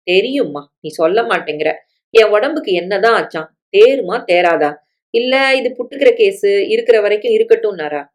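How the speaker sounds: mildly irritated questioning. Acted. Sick son questioning his mother about the doctor, mildly irritated. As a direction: press with a touch of irritation. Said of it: "Salim எரிச்சலோடு கேட்க".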